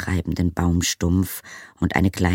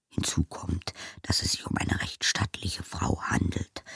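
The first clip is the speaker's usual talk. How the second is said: soft unvoiced whisper from inside his head; disembodied voice; 9 dB quieter than usual. A narrator's reading. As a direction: whisper it like a thought. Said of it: "flüsterte eine Stimme in seinem Hinterkopf".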